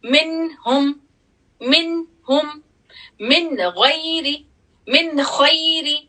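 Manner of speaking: noon said clearly before the throat letter; clear noon sound. Shown as a demonstration. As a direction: show the noon fully, slowly. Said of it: "وہ کیسے؟".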